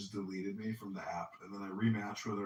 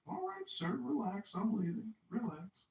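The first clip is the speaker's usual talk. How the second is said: nervous high placating; 10 semitones higher, slower than usual. Retold or imitated. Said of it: "I'm like".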